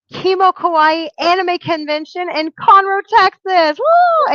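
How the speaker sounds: rising to a whooping cheer; excited anime fan. Acted. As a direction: hype it up to a big woo. Announcing the convention, cheering.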